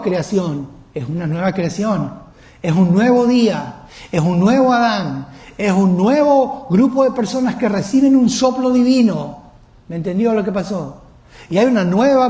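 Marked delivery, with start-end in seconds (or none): 2.6-9.4 raised preaching voice, building louder and higher; emphatic preaching. Real, not acted. Preacher announcing the new creation to the congregation, emphatic preaching. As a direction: proclaim it with rising force.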